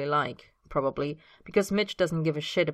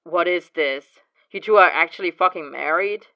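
shocked disbelief; 8 dB louder than usual. Acted. James shocked at news.

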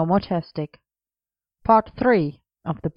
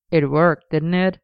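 smug. A narrator's reading. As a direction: answer as if pleased with yourself. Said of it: "Arthur replied smugly".

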